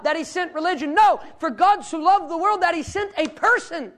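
loud, high, impassioned sermon delivery; full-force preaching. Real, not acted. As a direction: preach it hard, building to a ringing declaration.

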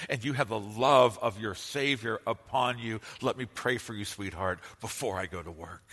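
gentle, hushed reassurance, held close; tender words to wife. Shown as a demonstration. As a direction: intimate encouragement that fades almost to a murmur. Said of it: "should sweep his wife up into his arms and should say".

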